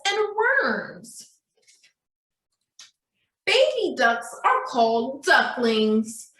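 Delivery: bright, careful storybook reading for little ones; a teacher reading a picture book aloud; reading to children. Acted. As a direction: read it slowly and clearly to a class of small kids. Reads the duck book.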